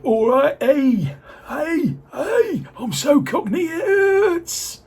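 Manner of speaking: hammed-up Cockney, very high and loud; Gary's Cockney. Mocking Gary's London accent for the viewers, over-the-top high Cockney. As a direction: squawk out a mock Cockney accent, far above your own pitch. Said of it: "He's a Cockney".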